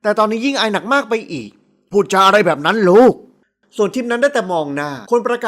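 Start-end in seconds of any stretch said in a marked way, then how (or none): 1.9-3.1 father's rebuke. Acted. Embarrassed father rebukes daughter.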